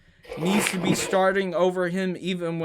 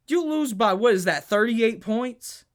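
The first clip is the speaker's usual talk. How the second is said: incredulous; 4 semitones higher than usual. Real, not acted. Disbelief at the margin.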